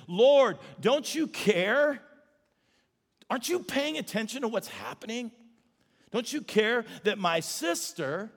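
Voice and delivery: exasperated complaint to Jesus; Martha complaining. Retold or imitated. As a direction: whine it like an overworked sister. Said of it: "that's how she said it".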